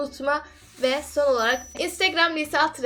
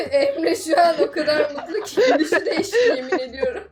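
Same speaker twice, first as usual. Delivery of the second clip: talking through laughter; laughing; 3 semitones higher, 7 dB louder than usual. Real, not acted. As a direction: laugh while teasing. Teasing friend, laughing. (gülerek konuşma)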